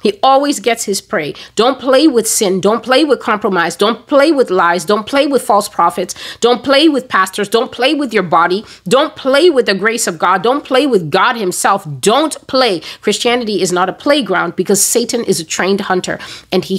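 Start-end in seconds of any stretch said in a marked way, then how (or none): 1.5-12.8 insistent, rhythmic admonition; emphatic warning. Real, not acted. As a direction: hammer PLAY in each "Don't play". Preaching a warning by repeated refrain.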